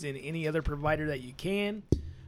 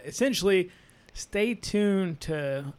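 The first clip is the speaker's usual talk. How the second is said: talking through a burp; burping the words; slower than usual. Real, not acted. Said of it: "I'm gonna burp some Busch beer".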